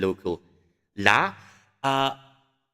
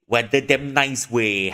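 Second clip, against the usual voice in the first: mild Malaysian; 4 dB louder, slower than usual. Shown as a demonstration. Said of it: "I probably say".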